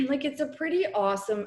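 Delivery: strained, losing voice. Real, not acted. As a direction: voice going hoarse mid-sentence. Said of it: "I feel like I'm losing my voice".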